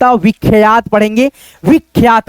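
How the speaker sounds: विख्यात as vikh-yaat, no vowel after ख; ख run straight into यात in विख्यात; joined kh-y. Shown as a demonstration. Teacher showing how it is done, विख्यात with joined ख्य. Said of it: "ऐसे करके".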